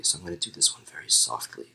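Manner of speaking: soft, low and quiet; softly. Shown as a demonstration. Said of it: "which means softly".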